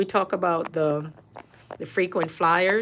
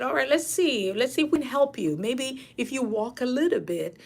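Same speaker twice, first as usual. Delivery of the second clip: higher-pitched humouring of a patient; kind, coaxing nurse; 6 semitones higher than usual. Retold or imitated. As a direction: gently talk a reluctant patient into trying. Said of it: "you gotta be, you know, kind to them".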